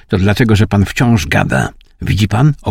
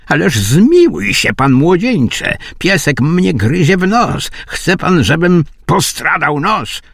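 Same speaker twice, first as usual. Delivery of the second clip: much higher, frantic plea; a high squeaky plea as the dog bites; frantic Iwan; 8 semitones higher than usual. A narrator's reading. Iwan begs the young man while the dog bites his nose, high plea.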